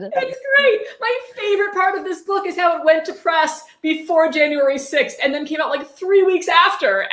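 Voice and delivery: high-pitched, laughing irony; amused sarcasm. Real, not acted. Host mocking the book's timing, high and amused. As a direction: savour the irony, still half laughing.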